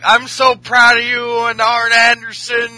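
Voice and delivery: lightly acted drunken gushing; drunk Ric Flair. Drunk father praising his daughter, rambling. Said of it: "Ric Flair was, like, drunk still".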